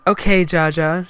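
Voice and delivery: high, loud falsetto heroine; Padme. Acted. Heroine sitting close to her patient, high loud falsetto. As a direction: begin in put-on heroine falsetto. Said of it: "she said, sitting close to him".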